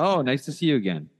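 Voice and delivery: friendly clerk saying "again"; clerk greeting. Shown as a demonstration. Clerk greets returning shopper, showing her "again". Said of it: "I'm the clerk this time".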